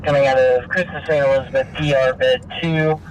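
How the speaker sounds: ambulance radio. Real, not acted. Scanner dispatch being played live.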